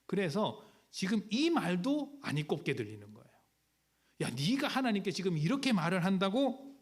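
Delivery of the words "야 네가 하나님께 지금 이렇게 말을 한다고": higher, reproachful rebuke; a self-righteous friend scolding Job; disapproving scold. Retold or imitated. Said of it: "못마땅한 겁니다".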